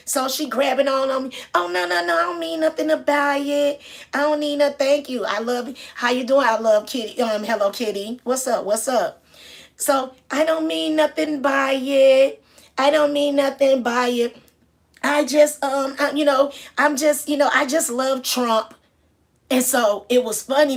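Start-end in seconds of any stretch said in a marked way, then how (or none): 1.5-9.2 lightly higher, gushing woman's voice; a touch of the tipsy fan cooing; loosely voiced tipsy cruise lady; gushing drunk lady. Imitating the lady's gushing. 10.3-18.7 high, loud, slow pleading woman's voice; mimicking a tipsy lady insisting; gushing drunk lady. Lady insisting she loves Trump.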